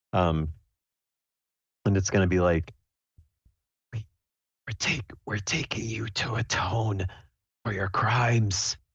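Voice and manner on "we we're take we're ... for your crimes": menacing whisper. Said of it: "I'm going to whisper".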